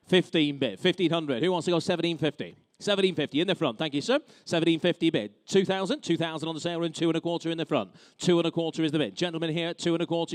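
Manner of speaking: brisk auction bid calling; auctioneer. Real, not acted. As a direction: rattle off the bids like an auctioneer.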